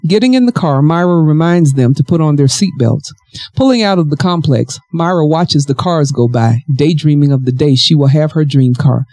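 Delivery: composed storytelling voice; story narration. Acted. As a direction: read the novel aloud, evenly.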